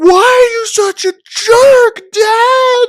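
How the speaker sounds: put-on sobbing outburst, very high and loud. Retelling how Ryan yelled at his dad, the speaker imitates him bursting into tears. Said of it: "just bursting into tears and just being like".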